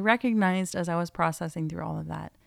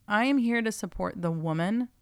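ordinary talk, nothing marked

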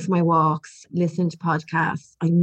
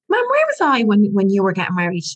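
put-on little boy voice; 3 dB louder than usual. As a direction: lightly play her small son wondering. Mother voices son in story.

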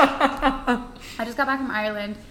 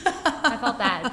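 laughing; much slower than usual. Real, not acted. Laughs at poor fish.

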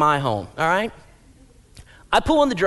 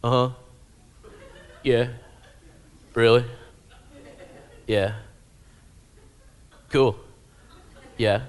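put-on bored teen on phone; 3 semitones lower than usual. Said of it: "This is what it sounded like".

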